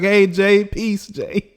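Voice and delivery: high, chummy imitation of a fan; mock friendly greeting. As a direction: imitate a haters' friendly hello. Haters' friendly greeting, acted.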